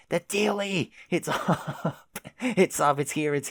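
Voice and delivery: very high, gleeful cry; excited shriek. Real, not acted. Spotting the mailbox flag go up, a high gleeful squeal.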